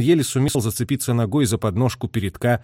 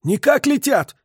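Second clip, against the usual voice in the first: hoarse; 13 semitones higher, 3 dB louder than usual. A narrator's reading. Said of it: "осипло сказал".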